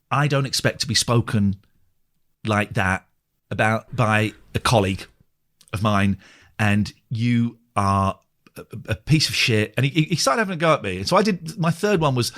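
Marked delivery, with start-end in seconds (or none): 0.1-9.7 offended reply. Retold or imitated. Acting out psychic's offended reply.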